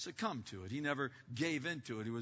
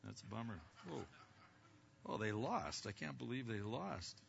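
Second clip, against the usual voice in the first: distracted reply; 4 semitones lower, 3 dB quieter than usual. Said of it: "they're reading and going".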